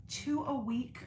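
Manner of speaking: breathless horrified whisper at the idea; aghast whisper. Real, not acted. Whispering in mock horror at a viewer's suggestion. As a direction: whisper it like it's unthinkable.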